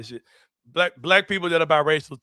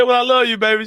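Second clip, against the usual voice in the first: lightly voiced lady, a bit higher and louder; retold sweet phone goodbye; mock lady on FaceTime; 6 semitones higher, 7 dB louder than usual. Friend retelling the white lady's phone goodbye, mock sweet. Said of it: "She said".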